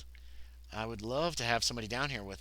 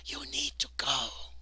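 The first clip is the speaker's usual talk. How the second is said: slow, breath-only whisper; reedy whisper; slower than usual. A narrator's reading. Hidden man warning the player away, reedy whisper. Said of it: "barely a reedy whisper".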